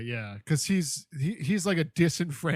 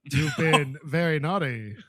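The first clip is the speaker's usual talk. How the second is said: Morgan Freeman impression. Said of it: "now that's my Morgan Freeman".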